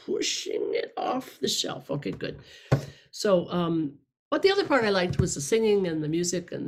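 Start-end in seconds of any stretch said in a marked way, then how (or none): 0.1-2.4 hushed, unvoiced whisper, a bit slow; whispered aside. Quoting someone in the room in a slow whisper. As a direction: whisper the prompt back quietly. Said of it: "She said".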